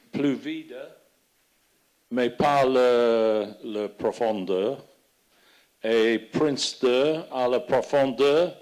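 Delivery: non-native speaker of French; speaking French with a foreign accent. Real, not acted. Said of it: "mon français, c'est très vieux". (accent étranger en français)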